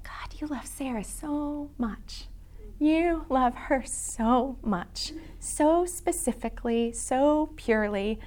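slow, hushed whisper of gratitude; a soft slow prayer under the breath. Retold or imitated. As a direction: murmur it to God in awe. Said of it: "I was going".

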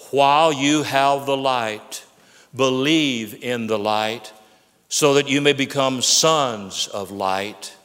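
measured, slowed-down scripture, every phrase weighed; slow emphatic reading. Acted. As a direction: read it slowly to let it sink in.

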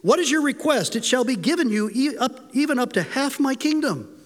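a touch of a grand, generous king; mock royal generosity. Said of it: "He sounds really generous here".

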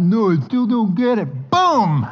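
high, loud laughing boom; giddy meat pounding. Pretend. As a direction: push through a laugh and hit it. Acting out tenderizing meat.

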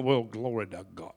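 very low preacher impression; Kenneth Copeland. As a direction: drop deep for a televangelist's praise. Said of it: "I'd do my best Copeland".

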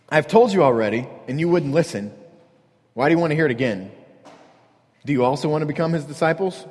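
needling sarcastic retort; mildly mocking, picking at them; fed up, then a goading question. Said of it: "sarcastically answered them".

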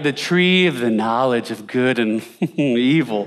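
the grand title, said with a laugh breaking in; mock the lofty name, laughing at it; mock solemn, laughing. Shown as a demonstration. Preacher mocking how we treat the tree, laughing. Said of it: "that's why we treat it".

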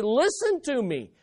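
lightly voiced child pleading with dad; a mildly urgent, rising plea; desperate kid. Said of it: "need something desperately from your dad".

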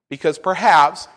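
"perhaps" leaned on with extra weight; stress on perhaps. Real, not acted. Preacher cautioning that this is only a theory, stress on "perhaps". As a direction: underline the word "perhaps" as a caveat. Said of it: "I am stressing the word perhaps".

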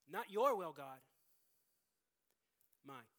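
loud, stubborn refusal; defiant. Acted. Sinners telling God they want their own way, loud and defiant. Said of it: "we all say".

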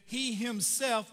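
slow, weighty "He himself"; emphatic himself. Shown as a demonstration. Preacher returning to the verse, slow stress on "himself". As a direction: let "He himself" land slowly. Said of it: "it's emphatic".

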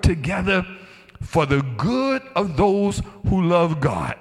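"absolutely no doubt" stated high and deliberate, without extra volume; measured, certain declaration, stretching "God causes everything"; without hesitation. Acted. Preacher voicing Paul's certainty in other words, emphatic. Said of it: "it is without hesitation".

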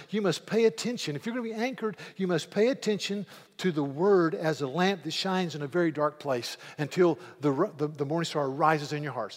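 forceful preacher's charge; preaching. Acted. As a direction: drive the command home from the pulpit. Preaching Peter's exhortation loudly.

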